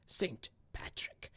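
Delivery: breathy stage whisper, slowed. Acted. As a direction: whisper it like a secret. Whispered aside mid fact reading.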